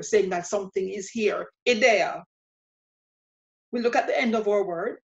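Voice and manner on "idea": "idea" as ee-DEH-ah, stress on the middle; Spanish pronunciation. Shown as a demonstration. Teacher likens Spanish "idea" to Creole, said ee-DEH-ah. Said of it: "this is Creole that you're speaking".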